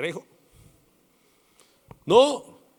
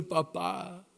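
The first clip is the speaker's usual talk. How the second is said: tearful plea; 3 dB quieter than usual. Retold or imitated. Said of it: "empezó a llorar y a llorar y a decirle".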